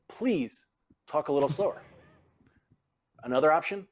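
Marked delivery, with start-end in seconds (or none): 0.1-1.8 polite request, lifted please, rising end; courteous request with a small pause after please; more polite. Shown as a demonstration. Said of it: "be a little more polite".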